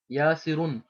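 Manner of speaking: यासिरुन with the final "n" sounded; with tanween. Shown as a demonstration. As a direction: end यासिरुन on "-run". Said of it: "इस पर तनवीन थी". (यासिरुन के अंत में तनवीन का न)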